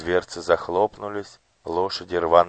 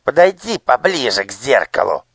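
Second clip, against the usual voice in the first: higher, loud shrill yell; spitting shout; 6 semitones higher, 13 dB louder than usual. A narrator's reading. Nushrok shouts at the boy to approach the mirror. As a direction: yell so you spray spit. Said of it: "закричал Нушрок, брызгая слюной".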